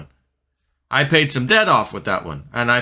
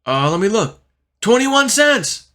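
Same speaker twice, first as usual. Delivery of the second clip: excited friend; 10 semitones higher, 4 dB louder than usual. Retold or imitated. Friend reading XRP's price from his phone, high loud cry. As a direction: call out the price in alarm.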